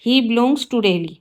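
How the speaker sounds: slow, careful read of the corrected sentence; slow teacher dictation. Shown as a demonstration. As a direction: lay out each word clearly for the class. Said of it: "right sentence होगा".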